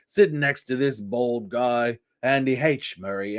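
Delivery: a hint of a smug host, mocking; mock presenter. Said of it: "Exactly what he sounds like".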